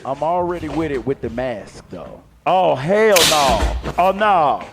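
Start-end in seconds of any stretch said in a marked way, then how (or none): 2.4-4.6 shocked. Real, not acted. Reacting to explosion.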